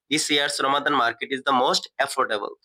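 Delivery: very slow, each word set apart; a teacher dictating the finished sentence, very slowly; slow dictation. Shown as a demonstration. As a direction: read it out slowly so the class can copy it down. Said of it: "teacher gives the final translation".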